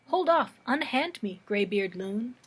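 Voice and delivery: rebuff someone grabbing you; sudden recited outcry, easing off quickly; indignant protest. Acted. Wedding guest rebuffs the mariner.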